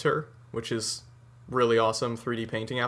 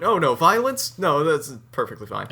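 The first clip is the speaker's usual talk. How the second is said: sarcastic; 4 semitones higher, 4 dB louder than usual. Acted. Sarcastic take on American violence.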